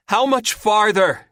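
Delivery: high, slow, drawn-out shout. A narrator's reading. Chrissy to Terry in the flooding tunnel, shouting. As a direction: shout it out, stretching the words. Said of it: "Chrissy shouts".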